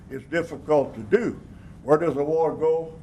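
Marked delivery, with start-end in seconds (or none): 1.8-2.9 stern. Real, not acted. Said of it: "I sounded pretty firm there, didn't I?".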